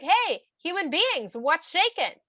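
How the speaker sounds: high, loud, drawn-out hail; calling out. Acted. Hashem greets the humans in the garden, calling out. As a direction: hail them breezily from a distance.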